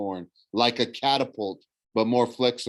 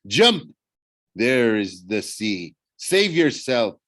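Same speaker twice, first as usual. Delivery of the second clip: lightly voiced villain daring his prey, bursts of loudness; a touch of grand menace, with a loud "Jump!"; taunting villain; 4 dB louder, slower than usual. Thorne's taunting villain voice in narration.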